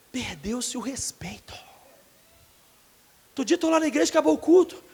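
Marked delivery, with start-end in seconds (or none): 0.1-1.5 slow whisper with a laugh; hushed, slow lament; whispered aside. Real, not acted. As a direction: lean in and breathe it like a secret.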